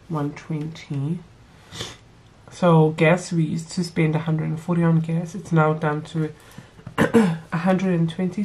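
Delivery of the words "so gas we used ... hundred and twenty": blocked nose from a cold; talking through a stuffy nose; nasal voice. Real, not acted. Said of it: "Sorry guys if I sound nasally".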